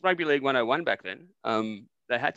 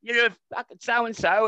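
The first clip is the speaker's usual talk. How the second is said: mock angry retort, louder and slow; 9 semitones higher, 4 dB louder, slower than usual. Footballer snapping back at the heckler, mock angry. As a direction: snarl it back like a riled footballer. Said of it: "This bloke went".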